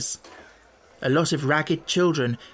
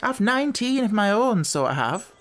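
much higher, cheeky gypsy woman; boasting gypsy woman; 7 semitones higher than usual. Acted. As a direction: brag about her brood.

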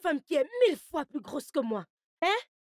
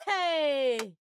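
crying out. Acted. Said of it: "je t'ai entendu crier".

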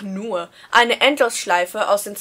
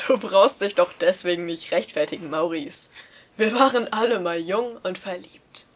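winking dad; 3 semitones lower than usual. Acted. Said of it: "zwinkerte Dad mir zu".

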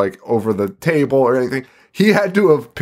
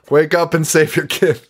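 higher, urgent mock warning; mock alarm call; 5 semitones higher than usual. Haunted house tipping off the parents, mock alarm call.

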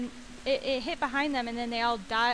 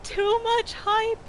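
slow, stretched, louder and higher; drawn out; 8 semitones higher, 6 dB louder, much slower than usual. Shown as a demonstration. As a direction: drag every word out, overwhelmed. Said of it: "repeats line, drawn out".

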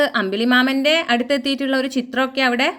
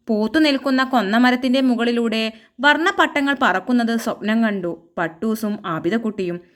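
measured storybook reading; unhurried storyteller delivery; story narration. Acted. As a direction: read the tale out gently and clearly.

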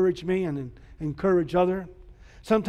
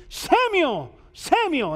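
high ringing call across the dark; 8 semitones higher, slower than usual. Acted. God calling the boy Samuel, high and ringing. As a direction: call the boy's name from afar.

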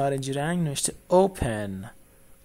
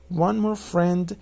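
slow line reading; much slower than usual. Shown as a demonstration. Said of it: "repeats song line slowly".

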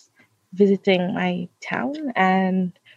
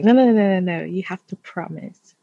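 insistent; 3 dB louder than usual. Retold or imitated. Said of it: "She was so insistent".

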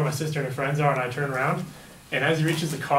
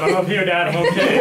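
raised, loud call-out; retold distant yell; 4 semitones higher, 8 dB louder than usual. Son yells to dad from twenty yards out, calling. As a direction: imitate calling to someone far off. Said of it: "I yelled at him from, like, twenty yards out".

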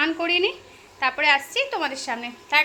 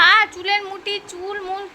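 higher and louder, cut short; startled cry; 7 semitones higher, 5 dB louder, slower than usual. Real, not acted. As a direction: cry out at a sharp tug on the hair. Hair grabbed again.

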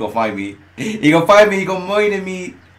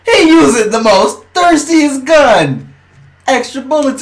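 loud, high complaint; outraged gamer holler; indignant outcry; 7 semitones higher, 4 dB louder than usual. Real, not acted. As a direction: call out the cheap gun, loudly. Complains about opponent's gun.

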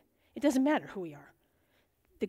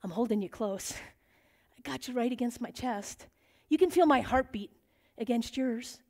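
tender voice of God. Retold or imitated. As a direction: hold them close with your voice. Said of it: "God gave us that name".

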